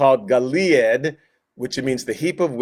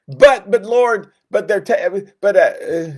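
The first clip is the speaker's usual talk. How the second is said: flustered protest; 5 semitones higher, 3 dB louder than usual. Retold or imitated.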